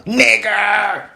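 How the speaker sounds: mock racist shout, "Nigger" drawn out to a hard R; strong hard R. Imitating racist Millwall men to friends, hard R on "Nigger". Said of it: "the nigger with a strong E R".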